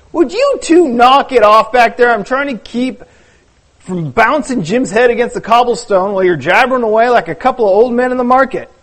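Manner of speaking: lightly voiced fishermen grumbling under a load; hint of complaining men carrying a friend; story characters bickering.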